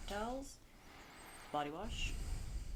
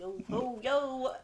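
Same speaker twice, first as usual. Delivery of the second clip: pirate voice; 3 semitones higher, much slower than usual. Pretend. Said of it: "A pirate?".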